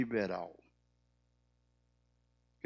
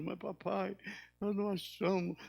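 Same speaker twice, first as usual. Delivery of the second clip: mock crying little girl, higher pitched; retold tearful child; 6 semitones higher, 3 dB quieter than usual. Granddaughter keeps crying to her father, retold tearful protest. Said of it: "Ela continuou chorando".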